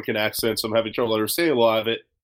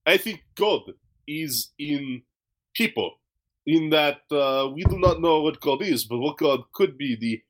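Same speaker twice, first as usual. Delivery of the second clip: lightly put-on African accent, pitched up at the start; vague African accent; 2 semitones higher than usual. Retelling a philosophical Uber driver, in a light African accent. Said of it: "what this accent I'm doing is".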